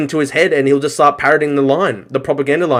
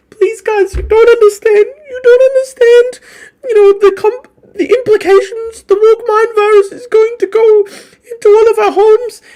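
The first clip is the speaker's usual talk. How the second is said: mock sobbing in a very high, loud falsetto; high, hysterical mock pleading through tears; Ian Miles Chong crying; 5 dB louder than usual. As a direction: wail it like a hammed-up crybaby. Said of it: "had Ian Miles Chong crying".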